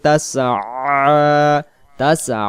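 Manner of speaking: তাসআ with the final "a" squeezed in the throat; squeezed throat ayn. Shown as a demonstration. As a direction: constrict the throat on the last syllable of তাসআ. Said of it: "আইন অক্ষর গলা চেপে".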